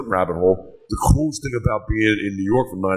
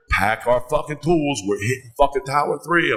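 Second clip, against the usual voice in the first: rousing order; 6 semitones higher than usual. Retold or imitated. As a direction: imitate a buddy rallying you to work. Acting out his buddy's rousing call.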